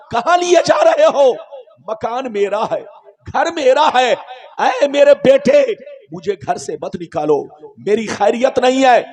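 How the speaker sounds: a mild mock cry of a dying sinner's soul, pleading. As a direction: plead as the frightened soul, lightly voiced. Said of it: "آتما چیخ چیخ کر کہتی ہے".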